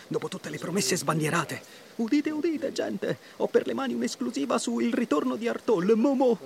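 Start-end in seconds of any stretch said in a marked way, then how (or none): 2.0-6.4 town crier. Pretend. Mock town crier announcement.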